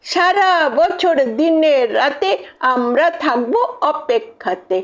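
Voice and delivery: lilting rhymed recital, settling towards the close; rhythmic closing verse; poem recitation. Acted. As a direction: recite in steady festive couplets.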